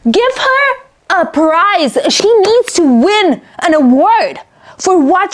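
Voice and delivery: slow, emphatic praise; raving. Real, not acted. Reader raving about the author, slow and emphatic. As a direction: hand her the trophy.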